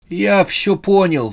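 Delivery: put-on high-pitched character voice for an old man; old man recovering. A narrator's reading. Old man gives in to Susanna, high-voiced. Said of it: "когда отдышался".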